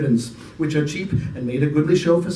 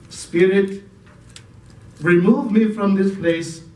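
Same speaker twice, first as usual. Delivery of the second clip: a lightly voiced old man begging; pleading Scrooge; 3 semitones higher than usual. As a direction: ask the spirit to take him away.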